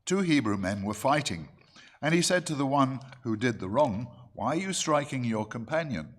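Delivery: firm, measured Bible-reading voice; scripture reading. Acted. Preacher resumes reading Exodus to the congregation, scripture reading. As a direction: read the verse out clearly, with emphasis.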